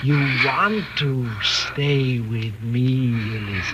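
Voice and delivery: coaxing, eerie calm; hypnotic persuasion. Acted. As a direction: lull her into staying word by word. Husband hypnotizing wife.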